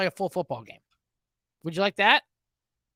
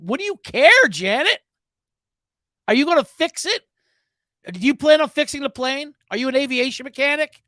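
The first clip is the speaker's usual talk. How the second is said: mock scolding; 4 semitones higher, 5 dB louder than usual. Scolding an imagined passenger Janet.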